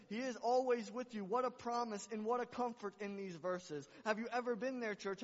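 loud, high, ringing sermon climax; full-force preaching. Acted. Pastor rousing his congregation, full-force preaching. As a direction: preach it out to the whole church.

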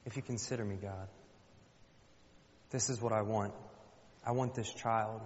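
pleading prayer. Acted. Hannah asking God for a child, softly pleading. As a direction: pray it quietly, with pauses.

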